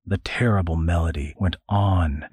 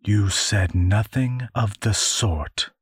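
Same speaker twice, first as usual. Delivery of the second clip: eldest sister. Acted. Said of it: "said the eldest".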